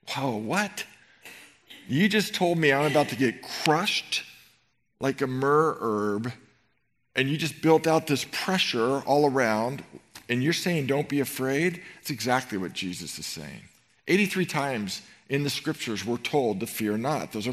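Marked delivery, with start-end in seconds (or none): 0.1-11.8 mock disbelief.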